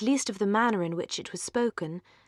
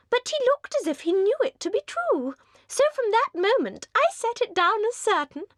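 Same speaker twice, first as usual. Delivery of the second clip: very high, louder, breathless society chatter; giddy young lady; 13 semitones higher, 4 dB louder than usual. Acted. Mrs Palmer gushes at the Dashwood sisters, very high and giddy. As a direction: gush like a merry, empty-headed hostess.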